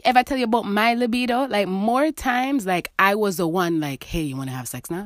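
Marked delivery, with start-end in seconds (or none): 4.0-5.0 softer, lower asking; quiet coaxing proposition. Retold or imitated. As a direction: ask it coaxingly. Imitating herself asking partner.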